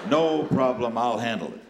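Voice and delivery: firm, punchy take-charge promise; brash fixer taking over; confident reassurance. Retold or imitated. Herbie repeats it, taking charge.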